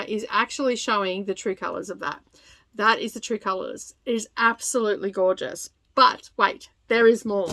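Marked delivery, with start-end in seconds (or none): 6.0-7.5 louder infomercial pitchman voice. Pretend. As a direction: sell it like a late-night infomercial. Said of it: "I'm sounding like an infomercial".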